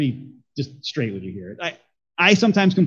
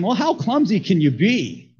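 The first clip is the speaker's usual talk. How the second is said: exasperated complaint; 6 semitones higher than usual. Acted. Pot exclaiming at the potter.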